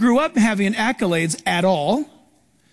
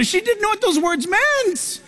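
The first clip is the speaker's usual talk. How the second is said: amused emphasis; 9 semitones higher than usual. Real, not acted. Punchline about a girl reading.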